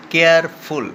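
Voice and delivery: কেয়ারফুল in two separate beats, high and loud; syllable by syllable. Shown as a demonstration. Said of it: "two সিলেবলিক word". (কেয়ারফুল শব্দটি জোরে দুই সিলেবলে ভেঙে)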